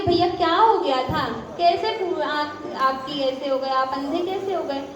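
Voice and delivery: softening, kindly asked question; tactful, caring inquiry; gently, with love. Acted. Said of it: "धीरे धीरे प्यार से".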